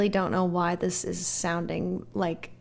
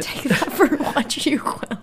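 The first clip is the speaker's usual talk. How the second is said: whisper; 6 semitones higher than usual. Real, not acted. Aside whisper.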